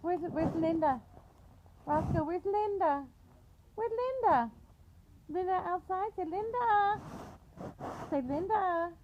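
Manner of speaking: high, coaxing questions to a pet. Real, not acted. Mother coaxing her dog to say Linda, high baby talk. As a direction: sing it up high to coax the dog.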